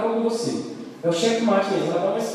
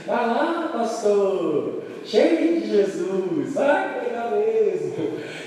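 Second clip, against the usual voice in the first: imitação leve de provocação, final bem lento; provocação da esposa; much slower than usual. Retold or imitated. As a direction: arrastar com ironia suave. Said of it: "Ela dizia assim". (esposa ironizando o pastor, imitação arrastada)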